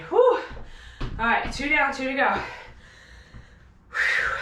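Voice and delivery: winded and puffing; breathless between words; out of breath. Real, not acted. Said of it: "Having a hard time talking here".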